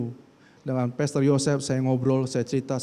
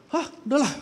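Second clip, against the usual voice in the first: exasperated huff; 12 semitones higher than usual. Acted. Acting out an angry sigh.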